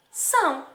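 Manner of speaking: "são" set apart and held; isolated syllable. Shown as a demonstration. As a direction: say "são" as one separate, drawn-out part of a word. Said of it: "Falando parte por parte".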